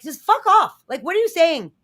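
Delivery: loud, high-pitched fed-up yell; exasperated outburst. Retold or imitated. Fed-up viewer to whispering actors, exasperated outburst. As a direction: yell it at mumblers you can't hear.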